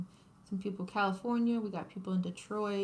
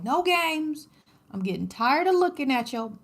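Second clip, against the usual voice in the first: loud, joking no-nonsense scolding; mock stern; 6 semitones higher, 9 dB louder than usual. Crafter jokingly scolding unfinished work, loud mock stern. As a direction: pretend to be fed up, loudly. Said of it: "I'm joking".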